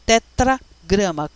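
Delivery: slow Tetragrama, split in two parts; term sounded out. Shown as a demonstration. Teacher explains the unpronounced name of God, slowly sounding out Tetragrama. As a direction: break Tetragrama into tetra and grama, unhurried.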